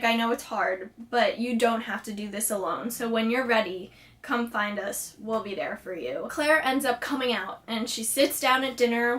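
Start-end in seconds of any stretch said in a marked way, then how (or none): 0.0-6.3 lightly acted, softer and lower comforting voice; gently reassuring. Jody comforting upset Claire in her room, gently reassuring. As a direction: ease down softly as you reassure.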